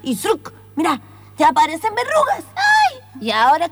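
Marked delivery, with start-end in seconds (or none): 0.0-0.5 spell incantation. Acted. Casting a spell.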